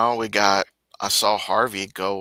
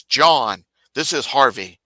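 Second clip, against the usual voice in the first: climbing higher and louder, laughing, slow at the end; mock pleading; 9 semitones higher, 7 dB louder, much slower than usual. Harvey begging John to leave him alone, laughing whine. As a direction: whine it, then crack up.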